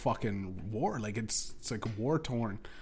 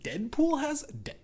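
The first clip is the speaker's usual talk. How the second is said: sudden squeak of disbelief, much higher; 13 semitones higher than usual. Retold or imitated. Mocking his own surprise at a Deadpool weed strain, with a squeaky high disbelief. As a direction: shoot way up in pitch, baffled. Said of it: "so many strains that I go".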